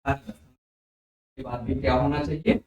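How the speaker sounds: slow, soft question to the class; slow quiz question. Shown as a demonstration. Teacher quizzing students slowly and softly. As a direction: draw the answer out of them slowly. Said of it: "teacher quizzing".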